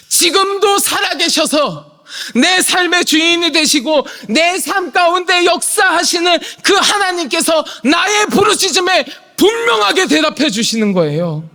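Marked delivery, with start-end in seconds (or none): 0.1-10.5 fervent preaching. Acted. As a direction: preach it out with fire. Preaching at full force. (열정적으로 외치는 설교)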